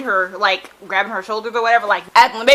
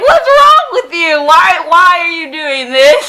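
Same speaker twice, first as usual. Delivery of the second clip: shouted much higher and louder, slow; frustrated shout; 8 semitones higher, 11 dB louder, slower than usual. Retold or imitated. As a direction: yell at the character like she's lost it. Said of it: "I'm just like".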